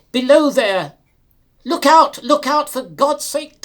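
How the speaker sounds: loud, high shout of alarm down the line; driver's warning shout. Acted. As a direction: yell it out to a man on the track. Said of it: "I called out to him as loud as I could call".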